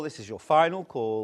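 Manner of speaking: captain on the cabin speaker; smooth pilot intercom announcement. Pretend. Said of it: "pilot voice, please?".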